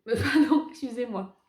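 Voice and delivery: apologizing through giggles; laughing. Real, not acted. Laughing at own slip.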